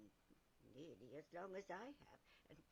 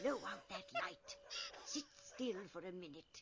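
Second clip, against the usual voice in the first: loud, higher urgent command; urgent order; 6 semitones higher, 7 dB louder than usual. Acted. Teacher ordering pupil to hide the light, urgent order. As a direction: snap the order out fast.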